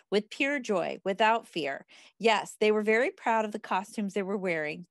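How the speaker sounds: measured read-aloud of a self-help book. Acted. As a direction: read the page out to a group, phrase by phrase.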